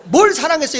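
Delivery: loud, high mock-angry comeback; defiant retort. Shown as a demonstration. Demonstrating the congregation's reply with clenched fist, defiant. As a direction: fire it back loudly, acting outraged. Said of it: "주먹을 딱 쥐고".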